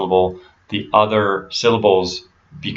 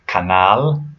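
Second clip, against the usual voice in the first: "canal" as kah-NAHL; weight on the end of Spanish "canal"; Spanish "canal" stressed on nal; stress on last syllable. Shown as a demonstration. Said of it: "you stress the last syllable".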